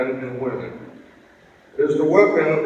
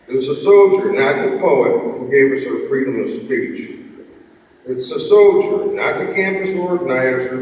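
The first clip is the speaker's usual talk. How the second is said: roaring rallying speech. Acted. Closing poem read to crowd.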